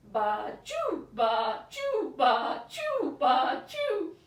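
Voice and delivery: loud bleating sneeze, rising into a laugh; sheep sneeze. Shown as a demonstration. Teacher plays a sneezing sheep for kids, loud bleat-sneeze. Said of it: "sheep is going to sneeze".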